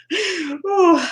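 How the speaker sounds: high exhaled ooh of relief. Real, not acted. Host composing herself after getting emotional, high ooh.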